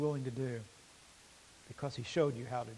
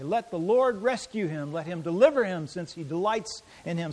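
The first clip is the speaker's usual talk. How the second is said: mocking; 3 semitones higher, 5 dB louder than usual. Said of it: "they're mocking him".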